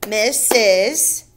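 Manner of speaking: "Missus" in two even beats, miss, us; split into syllables. Shown as a demonstration. Teacher counting beats in a name, "Missus" syllable by syllable. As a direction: break "Missus" into separate beats. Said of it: "how many beats".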